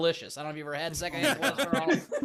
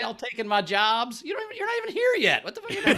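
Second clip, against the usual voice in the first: hammed-up Columbus ranting higher and higher into a laughing shout; mock angry Columbus; 4 semitones higher than usual. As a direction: play up the outrage, then blow up.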